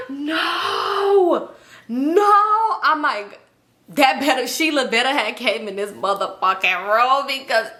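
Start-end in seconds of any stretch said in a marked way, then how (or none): 0.1-2.3 higher, alarmed no-no; higher-pitched disbelief; shocked denial. Retold or imitated. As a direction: refuse to believe it. Shocked realization in mirror.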